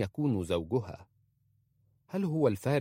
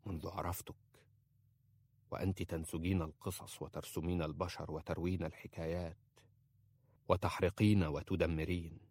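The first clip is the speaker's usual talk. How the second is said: tender murmur; 3 semitones lower, 6 dB quieter than usual. A narrator's reading. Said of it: "يقبلها قبلات قصيرة".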